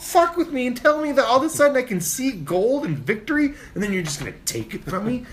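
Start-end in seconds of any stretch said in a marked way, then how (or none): 0.0-3.0 mock outraged rant. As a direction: vent at him like he can hear you. Ranting at the slow driver.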